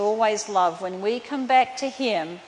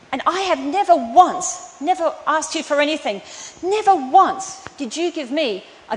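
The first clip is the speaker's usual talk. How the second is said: louder, higher, aggrieved protest; resentful complaint; 3 semitones higher, 4 dB louder than usual. Retold or imitated. Older son protesting to his father about the feast, loud and bitter. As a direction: let the older son's grievance spill out, loud.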